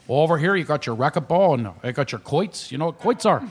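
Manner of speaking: lightly imitated Shamokin tour-guide accent. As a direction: show them round in small-town Shamokin talk. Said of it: "He's there with that Shamokin accent".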